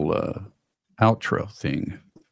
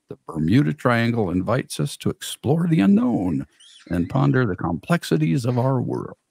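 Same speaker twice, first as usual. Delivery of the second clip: sexy voice. Shown as a demonstration. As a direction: read it like a seductive documentary narrator. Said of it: "let's see if I can do this in my sexy voice".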